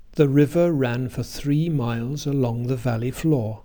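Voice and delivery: "river ran for three miles" in regular beats, "for" and "the" weak; stressed and unstressed syllables. Shown as a demonstration. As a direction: land firmly on RIVER, RAN, THREE, MILES, VALLEY, FLOOR. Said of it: "Listen again".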